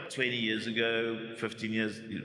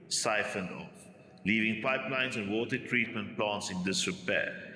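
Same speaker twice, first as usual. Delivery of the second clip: formal script read. Acted. Vlogger reads his written piece on water corruption, formal voiceover read.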